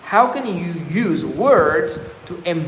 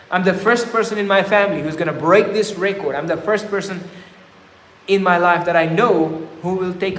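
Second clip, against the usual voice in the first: empowering self-talk. Shown as a demonstration. Speaker models confident self-talk for viewers, firm and bold. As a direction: talk yourself into action like a coach. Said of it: "if you can speak like that".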